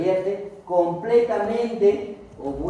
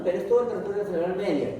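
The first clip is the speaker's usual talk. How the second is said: quick restatement; 3 semitones higher, faster than usual. Shown as a demonstration. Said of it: "no sé si te has dado cuenta".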